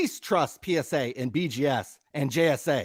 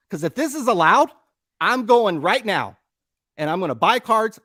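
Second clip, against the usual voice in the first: worked up; 3 semitones higher, 4 dB louder than usual. Real, not acted. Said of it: "I apologize for getting worked up".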